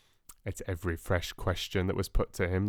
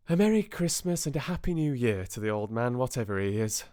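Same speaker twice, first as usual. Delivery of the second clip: nephew's toast; 4 semitones higher, 4 dB louder, faster than usual. Acted. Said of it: "said Scrooge's nephew".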